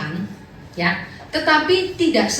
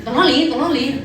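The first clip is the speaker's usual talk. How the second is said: put-on Taiwanese accent; 2 semitones higher than usual. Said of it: "dia ngomong bahasa Taiwan gitu".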